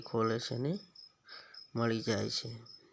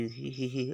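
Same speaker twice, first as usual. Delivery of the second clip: giggle. Shown as a demonstration. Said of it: "હસવાનું છે".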